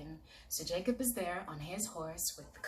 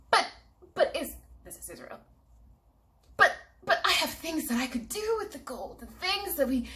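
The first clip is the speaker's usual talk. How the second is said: higher, louder stammering plea; high pleading protest; 8 semitones higher, 6 dB louder than usual. Acted. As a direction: plead fast and flustered. Brother pleading for the gold.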